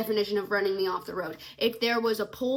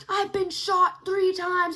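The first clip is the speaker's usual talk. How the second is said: menacing stranger; 7 semitones higher, 5 dB louder, slower than usual. Retold or imitated. Stranger's menacing line quoted.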